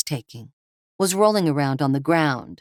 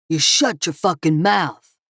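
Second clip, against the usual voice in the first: roared; 3 dB louder than usual. Acted. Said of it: "Kevin roared".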